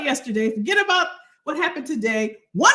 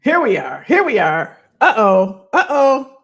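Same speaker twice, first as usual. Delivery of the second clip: loud call-out; 3 semitones lower, 8 dB louder than usual. Real, not acted. Stream starting, calling out.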